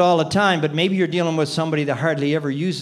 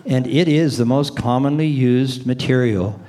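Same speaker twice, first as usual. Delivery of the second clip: saying great news in a flat voice; deadpan delivery of exciting words; flat, unexcited demo; 5 semitones lower than usual. Shown as a demonstration. Demoing flat tone to a seminar audience, deadpan. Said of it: "what if I said".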